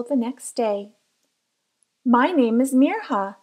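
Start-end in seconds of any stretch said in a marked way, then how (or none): 2.0-3.4 firm, louder "My name is Mirha"; a girl proudly correcting the boy in her class. Acted. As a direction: stand tall and say "Mirha" with the H. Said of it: "she told Hayden proudly".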